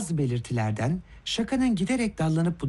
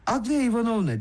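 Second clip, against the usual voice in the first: higher-pitched cry of a name, only mildly raised; mild exclamation; 6 semitones higher than usual. A narrator's reading. Kolya cries out to Aglaia Ivanovna, a mild exclamation. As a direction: call out the name, understated. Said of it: "diye haykırdı Kolya".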